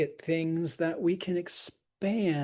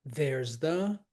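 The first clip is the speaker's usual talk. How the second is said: "There's the" rising, set apart; separated foot. Shown as a demonstration. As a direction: say "There's the" as one hanging foot. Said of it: "that's a foot".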